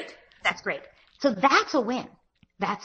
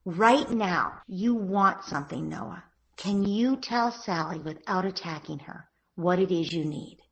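gentle parent; slower than usual. Shown as a demonstration. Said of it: "So you say".

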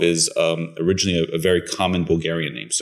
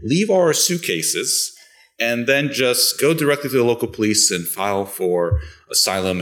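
lightly voiced parent, pitched higher and slowed; a hint of the parents talking it over, higher; quoting the parents; 5 semitones higher than usual. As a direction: replay the parents' plan in a raised voice. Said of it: "they said".

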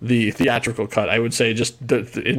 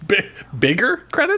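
amused disbelief; 6 semitones higher than usual. Real, not acted.

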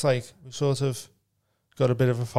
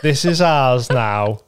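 mock defiant; 6 dB louder, slower than usual. Mock defiant claim, laughing.

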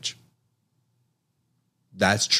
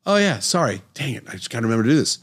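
sheepish younger self; 4 semitones higher, faster than usual. Retold or imitated. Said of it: "she would again say".

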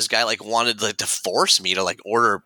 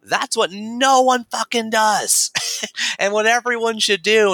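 high, loud, slow emphatic pronouncement; intense bartender; 11 semitones higher, 4 dB louder, slower than usual. Retold or imitated. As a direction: lay it down with ferocious intensity. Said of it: "And he said".

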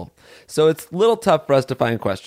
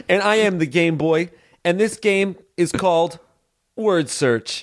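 raised, announcer-like character voice; pitched-up silly game host; Game Boy voice; 5 semitones higher than usual. Pretend. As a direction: play a goofy game-show host persona. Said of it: "a specific way of talking that the Game Boy has".

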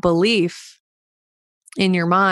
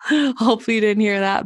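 laughing; 4 semitones higher, faster than usual. Real, not acted. Laughs after bumping the microphone.

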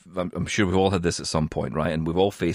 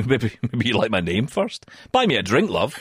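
laughing. Retold or imitated. Cheeky joke, laughing.

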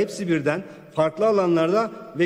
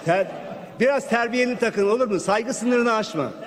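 angry; 4 semitones higher than usual. Real, not acted. Heated clash in parliament.

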